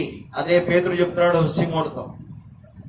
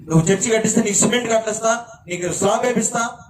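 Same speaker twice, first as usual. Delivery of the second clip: mock bargaining; 4 semitones higher than usual. Mocking a bargaining prayer.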